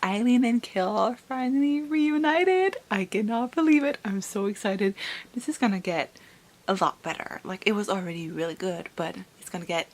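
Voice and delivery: soft but eager, held-down thrill; hushed excitement. Acted. Vlogger quietly gushing about the reunion, hushed. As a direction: contain the excitement to a hush.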